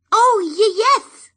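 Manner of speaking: high, stammering sprite voice; eager fairy. Acted. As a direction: jump in eagerly, tiny and high. Fairy brightens.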